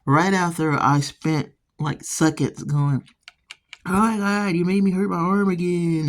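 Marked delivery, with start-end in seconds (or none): 3.8-6.1 fussing. Retold or imitated. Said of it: "fussed at him about it".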